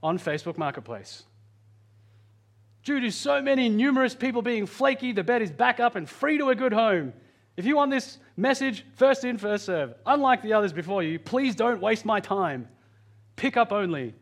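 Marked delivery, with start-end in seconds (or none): 2.8-14.1 lightly voiced seller's ad, pitched higher; online seller's listing. Preacher reading a seller's Marketplace description to the congregation, lightly voiced seller. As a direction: read out the seller's post in a higher voice. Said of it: "the guy who was selling the base had this in the description".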